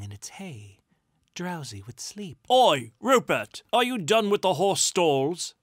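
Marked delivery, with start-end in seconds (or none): 2.5-5.5 loud, high holler; calling out. A narrator's reading. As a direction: shout down from a hayloft. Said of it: "a voice called from the hayloft".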